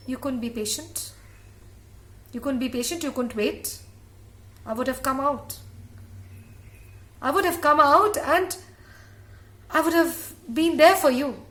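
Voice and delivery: put-on an angry baby scolding his mother, building. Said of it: "never seen a baby so angry".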